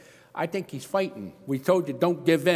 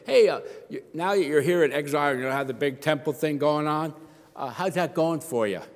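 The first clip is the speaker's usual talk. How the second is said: mocking taunter; 2 semitones higher than usual. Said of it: "They say".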